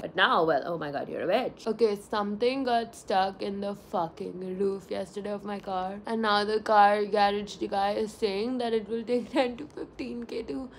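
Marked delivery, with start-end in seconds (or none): none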